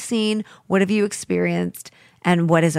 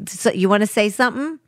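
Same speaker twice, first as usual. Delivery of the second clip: mock Italian-American tough talk, rising higher; Italian-American accent; 4 semitones higher, faster than usual. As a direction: confront them like a pushy Italian-American. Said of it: "My Italian friend".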